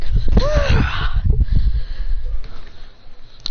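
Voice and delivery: long voiceless blast noise; drawn-out breathy impact; impact sound effect. Acted. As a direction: imitate a big hit with the mouth. Imitates punch in the back.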